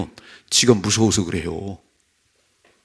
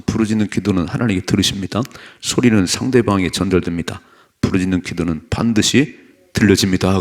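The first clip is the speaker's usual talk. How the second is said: loud, declarative preaching; forceful sermon reading; 5 dB louder than usual. Real, not acted. Preacher reading the point on praying aloud, forceful. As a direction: proclaim each point firmly and loudly.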